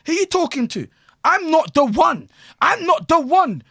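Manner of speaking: high, loud, slow mock bad-gal voice; hammed-up bar girl acting like a bad man; imitating the rude bar girl.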